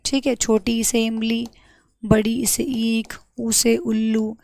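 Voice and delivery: slow sing-song alphabet chant; childhood recitation. Retold or imitated. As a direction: recite it like a child learning letters. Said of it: "आप लोगों ने ऐसे अनार पढ़े होंगे". (बच्चों की तरह धीरे-धीरे रटना)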